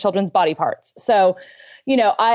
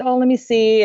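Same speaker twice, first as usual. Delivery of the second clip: comforting; 4 semitones higher than usual. Retold or imitated. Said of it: "I comforted Luke".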